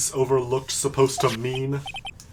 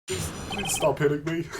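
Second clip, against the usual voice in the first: quiet pleading; 8 dB quieter than usual. Acted. Pleading after whipping.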